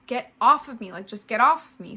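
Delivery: loud, desperate get off of me; shouting to be let go; retold yell. Woman shoved against the wall yells at her attacker to get off.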